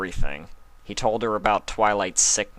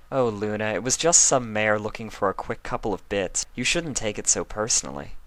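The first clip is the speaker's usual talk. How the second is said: lightly voiced, slightly higher regal mare; Celestia, poised elder princess; 4 semitones higher than usual. Celestia asking Luna about the stallion, lightly teasing. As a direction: speak as a teasing older sister.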